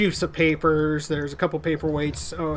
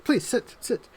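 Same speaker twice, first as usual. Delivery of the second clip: genial lord; 2 semitones higher than usual. Acted. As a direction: offer drinks with lordly charm. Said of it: "And he says".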